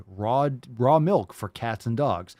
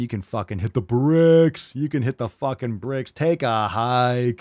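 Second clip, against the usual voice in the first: mock dismissal; 6 dB louder than usual. Joke dismissal of Instagram questions.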